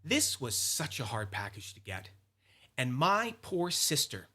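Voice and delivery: earnest, mildly plaintive guilt trip; put-on sob story, understated. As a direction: lay it on with measured emphasis. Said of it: "I wanted to lay a guilt trip in".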